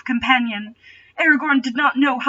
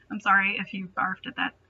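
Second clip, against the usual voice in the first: usual speaking voice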